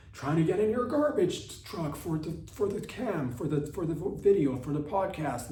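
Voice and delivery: high, strained shout after the truck; mock yelling. Comedian yells at garbage men to let him in. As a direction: holler after a speeding truck.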